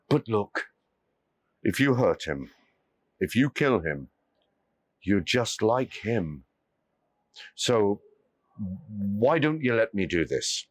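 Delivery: a wise man gently reasoning; lightly voiced calm holy man. Holy man speaks calmly.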